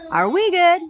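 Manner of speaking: put-on frantic girlfriend asking if it's over; anxious pleading. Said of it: "A lot of you will ask them".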